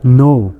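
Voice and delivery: no, the word know with its k left unsounded; silent K. Shown as a demonstration. Teacher showing the unpronounced letter, know said as no. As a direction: start no straight on the n. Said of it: "এখানে কে উচ্চারণটা হয়নি".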